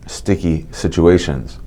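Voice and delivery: slow, deliberate "sticky situations"; carefully stressed "sticky situations" around braces; emphasized words. Shown as a demonstration. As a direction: spell out each syllable of "situations". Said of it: "I'm emphasizing my words because of my braces".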